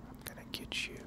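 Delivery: creepy unvoiced whisper as the zombie. Streamer voicing a zombie to viewers, in a creepy whisper. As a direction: breathe it like a lurking zombie.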